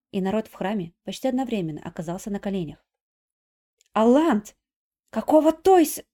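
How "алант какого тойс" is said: loud, higher, breaking off mid word; angry hiss cut off. Acted. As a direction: snap then stop short. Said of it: "прошипела Надежда ... замолчала на полуслове". (злобно, оборвав на полуслове)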